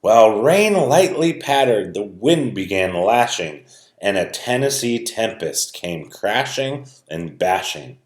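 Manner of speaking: lively rhyming read-aloud; story narration. A narrator's reading. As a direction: read it like a picture book to kids.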